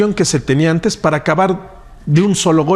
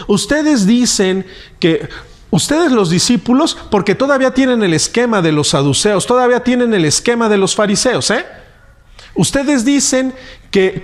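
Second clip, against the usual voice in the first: mock challenge; 3 semitones higher than usual. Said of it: "pareciera que está diciéndoles a los apóstoles".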